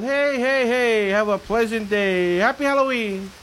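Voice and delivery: lightly voiced witch; a hint of a gleeful witch; witch's song. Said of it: "here's the witch's song".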